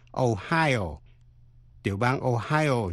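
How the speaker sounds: Ohio as "o-HI-o"; stress on second syllable. Shown as a demonstration. Teacher contrasting two states, Ohio stressed on the second syllable. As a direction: lean on HI in Ohio. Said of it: "nhấn mạnh vào vần nhì".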